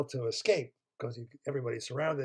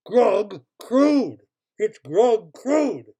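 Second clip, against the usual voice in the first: excited reveal; 6 semitones higher, 9 dB louder, much slower than usual. Acted. Big reveal of character.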